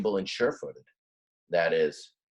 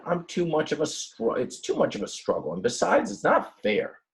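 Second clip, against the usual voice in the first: pleading ram; 8 semitones higher than usual. Acted. Ram sends friends away.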